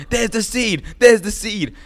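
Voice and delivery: very high, loud frenzied cry; Joey Diaz impression. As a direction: shout it wildly, twice over. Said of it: "And he's like".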